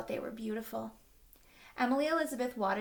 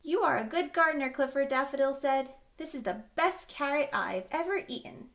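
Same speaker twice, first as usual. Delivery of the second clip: rabbit voice; 4 semitones higher, 4 dB louder than usual. Acted. Rabbit character praising Clifford.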